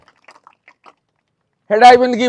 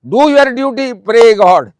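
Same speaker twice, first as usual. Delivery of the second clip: loud exhortation; 3 semitones higher, 5 dB louder, slower than usual. Real, not acted. Exhorting students to pray.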